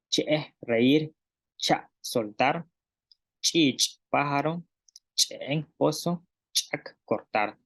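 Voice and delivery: cada palabra con "ch" clara y separada, luego su traducción; pronunciación maya. Shown as a demonstration. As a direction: maestra articulando con cuidado. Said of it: "repitamos de nuevo con la consonante, este, simple". (maestra repite las palabras con ch simple)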